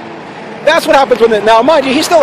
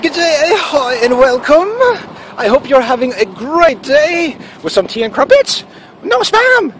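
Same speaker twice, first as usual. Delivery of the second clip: hammed-up posh British accent, pitched higher; 4 semitones higher, slower than usual. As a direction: do a cheesy British greeting with a higher voice. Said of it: "best British accent".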